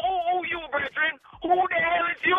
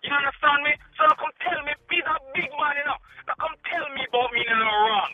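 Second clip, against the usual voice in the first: angry Jamaican run. Real, not acted. Caller insists he did no wrong, angry in patois. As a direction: argue hot in Jamaican patois, then cool off. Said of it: "you went on a Jamaican run".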